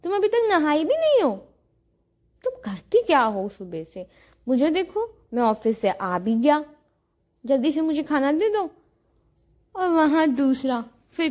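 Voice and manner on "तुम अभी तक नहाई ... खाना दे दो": lightly voiced impatient husband; mock husband complaint. Wife imitates husband asking for lunch, mild mock nag. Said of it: "अभी फिर आके बोलेंगे".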